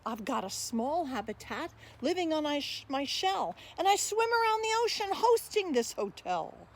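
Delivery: a hint of a proud mighty turtle, rhythmic rhyme; lightly voiced sea turtle. Sea turtle speaks in first person.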